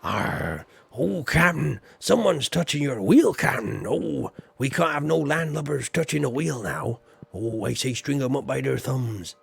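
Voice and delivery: growling pirate crewman; hammed-up pirate calling to his captain. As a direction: play a rowdy deckhand ratting someone out to the captain. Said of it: "do you want to hear my pirate voice".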